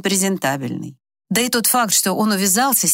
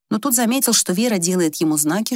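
ordinary delivery

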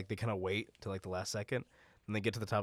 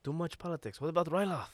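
much higher, rebel leader's impatient protest; Sham impression; 9 semitones higher, 3 dB louder than usual. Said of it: "That was pretty good".

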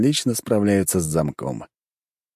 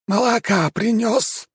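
house spirit; slower than usual. Acted.

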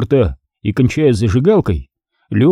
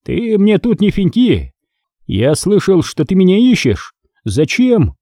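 higher, dismissive boss voice; contemptuous boss; 7 semitones higher than usual. A narrator's reading. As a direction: shoo the underling away.

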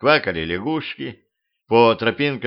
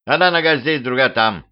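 raised brownie shout; 3 semitones higher than usual. Acted. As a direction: call it out cheerfully. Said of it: "крикнул он". (громкий выкрик)

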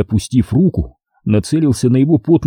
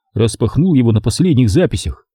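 ordinary delivery, nothing marked

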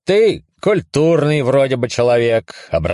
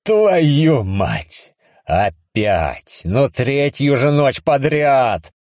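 exasperated outburst; 6 semitones higher, much slower than usual. Acted. Woken by voice, exasperated.

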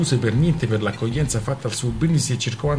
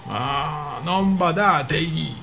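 higher, mocking storyteller's character voice; a lightly voiced scornful friend; bursting out mockingly; 5 semitones higher than usual. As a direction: scoff at the newcomer's toast with mock concern. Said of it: "sbottò Rana".

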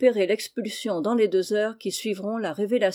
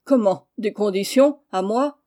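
loud, offended disbelief; indignant outrage; 6 dB louder than usual. Acted. The headmaster, outraged, to the pupil: loud indignant disbelief. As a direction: headmaster bristling at a boy's demands.

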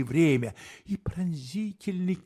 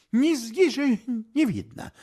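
exclaiming; 7 semitones higher, 6 dB louder than usual. A narrator's reading. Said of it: "воскликнул я".

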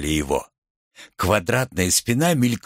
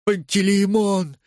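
higher, slow, shaking call of the name; trembling voice; 8 semitones higher than usual. A narrator's reading. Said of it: "трясущимся голосом". (дрожащим голосом, выше)

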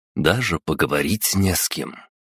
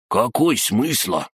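high, slow sulky crab voice; offended crab; 6 semitones higher, much slower than usual. A narrator's reading. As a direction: pout like you've been cheated. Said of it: "Обиженно надулся Крабогном". (обиженный голос краба)

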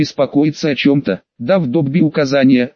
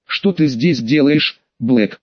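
cold; slower than usual. Acted. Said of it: "холодно бросил Снейп".

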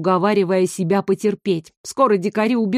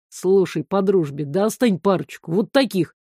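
ordinary delivery, nothing marked

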